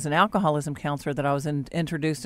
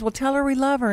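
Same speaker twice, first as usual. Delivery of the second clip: retold mom; 8 semitones higher, faster than usual. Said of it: "She goes".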